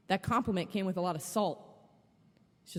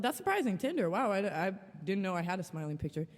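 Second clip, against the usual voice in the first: mock surprised; faster than usual. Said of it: "And so I was like".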